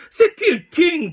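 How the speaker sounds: high, loud call-out to rivals; shouted challenge. Real, not acted. Rapper daring Québec rivals, loud shouted challenge. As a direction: throw the question at every rival.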